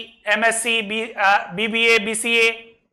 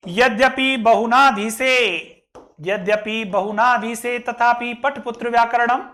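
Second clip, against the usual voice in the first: measured, level-toned shloka recital; Sanskrit verse recitation. Shown as a demonstration. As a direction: recite the verse line by line like a teacher.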